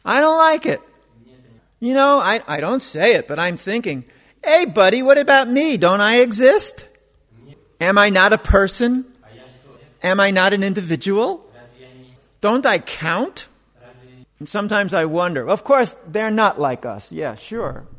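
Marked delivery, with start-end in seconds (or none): 4.4-13.5 louder, raised, hurt asking if he counts; indignant inner protest. Retold or imitated. To people who define him, a raised indignant protest.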